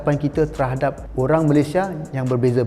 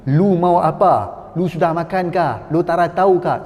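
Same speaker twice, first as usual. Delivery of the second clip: mock pidgin Malay.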